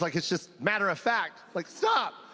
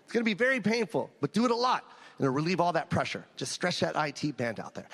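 apologetic doctor; 7 semitones lower than usual. Retold or imitated. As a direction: backpedal gently, voice dropped. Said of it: "Oh my God".

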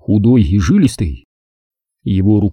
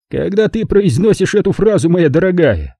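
higher-pitched, lightly languid count; lazy; 8 semitones higher than usual. A narrator's reading. Count needles Zelda about her friend, mildly lazy. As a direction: tease her with a touch of laziness. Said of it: "лениво заметил он".

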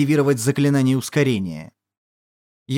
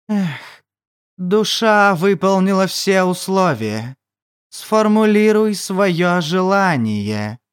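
whispery telepathic voice; 2 semitones higher, slower than usual. Acted. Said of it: "Древний загадочный голос прозвучал в сознании".

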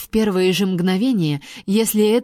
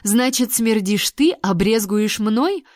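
indignant; slower than usual. Acted. Indignant retort.

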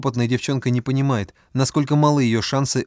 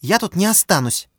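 higher defiant snap; bristling retort; 7 semitones higher than usual. A narrator's reading. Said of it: "мгновенно ощетинилась Оксана".

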